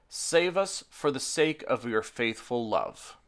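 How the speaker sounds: earnest, measured psalm reading; scripture reading. Acted. Pastor reading Psalm forty-four to the congregation, solemn and earnest. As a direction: read the lament to the congregation with weight.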